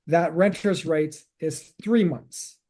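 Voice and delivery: That renter's rights is three months, slow with "three" leaned on; slow, deliberate recap landing on "three"; stress on three. Shown as a demonstration. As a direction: spell out "three" clearly and slowly for listeners. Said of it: "two pieces of gold that we need to understand".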